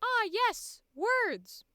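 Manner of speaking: breezy parody of normal people; mock normal speaker. Shown as a demonstration. Showing how normal people start words. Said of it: "normal people just go".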